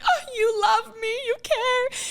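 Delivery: high, swooning mock gush; touched gushing. Retelling thanks to the friend who ran over, gushing. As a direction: play up being adored and rescued.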